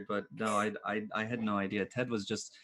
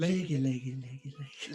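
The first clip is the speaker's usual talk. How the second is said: put-on New Zealand accent; 4 semitones higher than usual. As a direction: repeat it with a Kiwi lilt. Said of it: "New Zealand accent".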